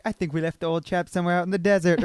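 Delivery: lightly imitated British accent, a little quick; British safari guy. Friend retelling Jake's middle school play line, British safari guy. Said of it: "he had to be a British, like, safari guy".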